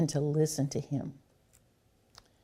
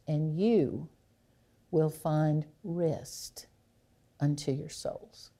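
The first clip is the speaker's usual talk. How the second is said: gentle invitation; slower than usual. Retold or imitated. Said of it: "Love it when Jesus said".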